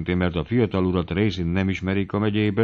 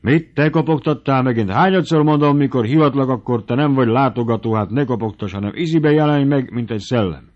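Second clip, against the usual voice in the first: loud, higher exasperated scolding; 5 semitones higher, 4 dB louder than usual. Acted. The baron scolds Bubenyik for knocking again, loudly. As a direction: tell off the servant, loud and high.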